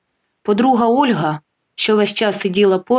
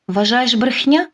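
slow, mocking echo of his word; 4 semitones higher than usual. Wife mocks her cheating husband's denial, slow and sneering. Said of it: "насмішливо перепитує вона".

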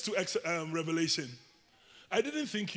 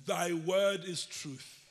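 slow lead-in reading; 4 semitones lower, 4 dB quieter, much slower than usual. Shown as a demonstration. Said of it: "Say the word".

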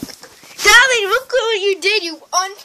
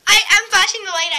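shouting; 3 semitones higher, 3 dB louder, faster than usual. Pretend. Shouting at animatronic in game.

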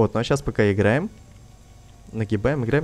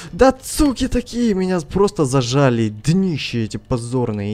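raging gamer. Real, not acted. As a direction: spit the insults out. Raging at blocking players.

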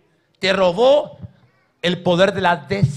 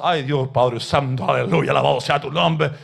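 mock pious prayer; 6 semitones lower than usual. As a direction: parody a sanctimonious churchgoer. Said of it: "hacerse religioso y contarle las cosas buenas".

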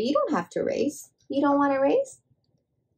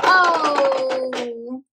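surprised oh; 5 dB louder than usual. Real, not acted. Toy race startles her.

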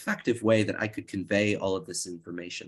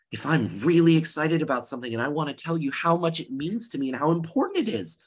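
a bit quicker, eager and lively; speeding up with excitement; 5 semitones higher than usual. Shown as a demonstration. Teacher showing students excited speech, speaking faster. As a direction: rush it a little to show excitement. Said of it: "I might speed up my pitch".

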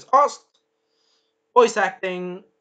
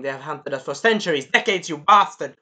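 angry; 5 dB louder than usual. Retold or imitated.

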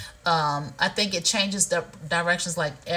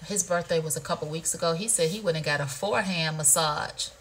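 ordinary talk, nothing marked

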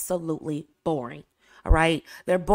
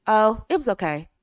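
dull, flat. Shown as a demonstration. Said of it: "This is what most women will do".

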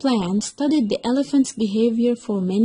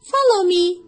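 high, louder eager fox voice; fox explaining; 8 semitones higher, 5 dB louder than usual. Acted. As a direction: lure him with grand promises. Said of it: "said the fox".

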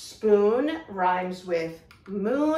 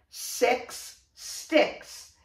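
whispered. Shown as a demonstration. Teacher repeats rhyme whispered.

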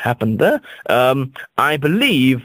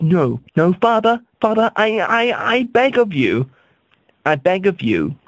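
begging son; 6 semitones higher than usual. Retold or imitated. Son begging father in story.

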